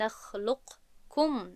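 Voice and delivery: «نخلقکم» slowly, qaf and kaf sounded separately; wrong unmerged reading. Shown as a demonstration. («نخلقکم» با قاف و کاف جدا، بدون ادغام)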